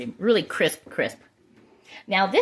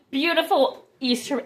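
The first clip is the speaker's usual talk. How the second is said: still laughing; 7 semitones higher than usual. Real, not acted. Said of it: "the crazy laugh".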